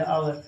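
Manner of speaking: आवर with silent H, opening on the vowel; correct pronunciation demo. Shown as a demonstration. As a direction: start आवर straight on "aa". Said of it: "और ये सही है".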